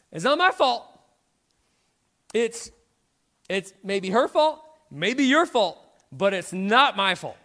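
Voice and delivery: defensive protest. Retold or imitated. Mimicking Adam dodging blame, indignant and loud. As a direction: deny it all and push the blame away.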